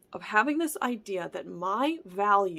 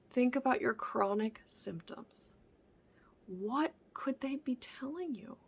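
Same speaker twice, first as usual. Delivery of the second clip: whispered; 3 semitones higher, 3 dB quieter than usual. Real, not acted. Whispered questions to viewer.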